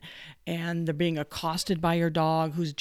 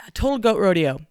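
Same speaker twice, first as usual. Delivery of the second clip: emphatic; 2 semitones higher, 8 dB louder than usual. Real, not acted. Emphatic punchline.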